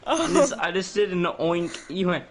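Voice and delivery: high, loud laughing talk. Real, not acted. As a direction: talk through hysterical laughter. Laughing fit.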